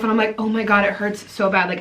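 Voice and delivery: ordinary talk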